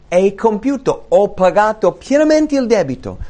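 Jesus on the cross proclaiming the debt is paid; triumphant cry. Retold or imitated. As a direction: cry it out as the final victory. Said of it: "Gridò".

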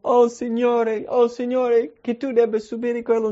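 exaggerated mournful sigh to the Lord; mock lament. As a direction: play a disciple wailing in mock sorrow.

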